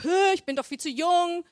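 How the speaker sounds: mock-indignant objection; meckernd. (gespielt meckernd, abwehrend)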